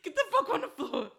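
high, loud, mock holdup shout; mock gunpoint yell. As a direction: yell it like a stickup, half joking. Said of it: "she grabbed the gun and was like".

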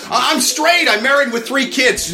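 a hint of high-pitched protest; mock protesting straight woman. Married woman resisting Kyra's advances, mock protest. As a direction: lightly voice a woman objecting.

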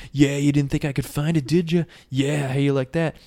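mildly acted gloating; a touch of swagger; cocky, arrogant. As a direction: rub it in with mock smugness. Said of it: "he's so arrogant".

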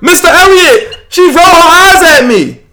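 mock a kid telling on someone; whiny little kid. Teasing friend by imitating kids at work, high tattling kid voice. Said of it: "That sound like the little kid, the kids at work".

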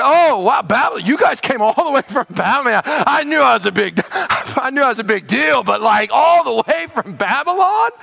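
mock starstruck host; flattered gush. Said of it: "He's flattered".

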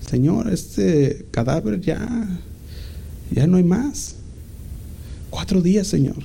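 drawn-out anguished objection; anguished protest. Acted. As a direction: beg him not to open the tomb. Martha protesting the tomb opening.

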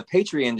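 "Patreon" with a weak "-ən" ending; disliked pronunciation. Retold or imitated. Co-host mimicking the version that grates, disliked pronunciation. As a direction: say "Patreon" with the last vowel swallowed. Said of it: "just sounds like it's like".

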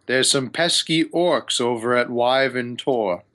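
lightly voiced patronising wizard; condescending wizard. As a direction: set out the job like an aloof wizard. GM voices wizard Hamun Kost.

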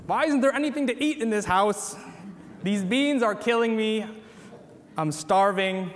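lightly hammed-up hungry complaint; mock freak-out. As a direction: complain like someone mildly freaking out over food. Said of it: "We're gonna freak out".

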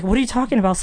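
mock bewildered questioning; baffled. Brother questioning the crying boy, baffled.

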